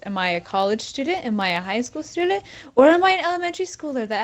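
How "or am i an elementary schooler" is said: mock childish. Teasing listeners about her age.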